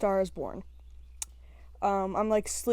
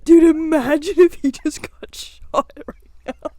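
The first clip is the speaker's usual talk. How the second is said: louder, drawn-out goofy excitement; laughing what-if; 3 semitones higher, 7 dB louder than usual. Retold or imitated. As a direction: imitate being cracked up by a dumb idea. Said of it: "we just started laughing, be like".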